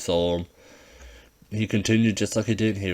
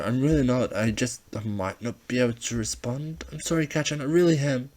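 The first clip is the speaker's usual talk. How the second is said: higher, hesitant apologetic voice; nervous kid; 5 semitones higher than usual. Acted. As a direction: stumble through the excuse. Izuku voiced, nervous explanation.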